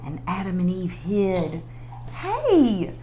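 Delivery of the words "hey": high, loud call. A narrator's reading. God calls for the hidden pair, high and loud. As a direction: shout out searching for them. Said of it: "called God".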